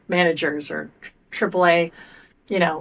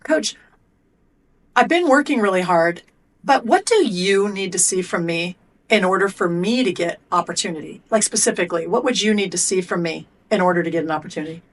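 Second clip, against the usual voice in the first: put-on kid pressing the coach. Shown as a demonstration. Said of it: "So I'll go".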